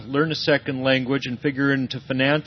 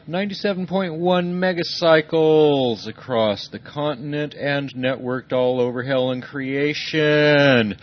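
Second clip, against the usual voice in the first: drawn-out, booming radio host greeting; on-air radio host welcoming listeners; radio DJ intro. Acted. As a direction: announce it like a late-night pirate radio DJ.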